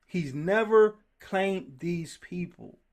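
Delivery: never drawn out, each word slow and weighted; slow it right down to drive it home; slow emphasis. Shown as a demonstration. Preacher repeating the point slowly for emphasis.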